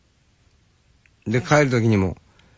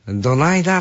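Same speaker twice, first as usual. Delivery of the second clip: Kansai greeting; 4 semitones higher than usual. Retold or imitated. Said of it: "ていう言葉の中にはさ".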